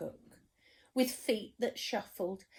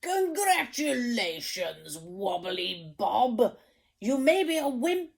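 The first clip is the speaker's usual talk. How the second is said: proud king; 3 semitones higher, 4 dB louder than usual. Acted. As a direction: make it a royal proclamation. King awards job.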